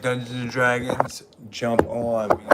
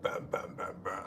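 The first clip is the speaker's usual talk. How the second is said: burping; 8 semitones lower, 13 dB quieter than usual. Shown as a demonstration. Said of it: "I burp".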